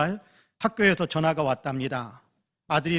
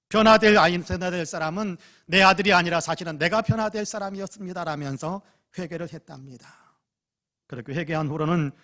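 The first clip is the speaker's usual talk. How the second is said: ordinary talk, nothing marked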